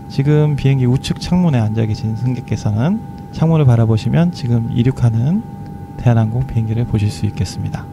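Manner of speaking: airline pilot. Shown as a demonstration. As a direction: speak like a seasoned captain reassuring passengers. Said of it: "제가 한번 해볼까요? 기장 방송". (저음으로 차분하게 하는 기장 기내 방송)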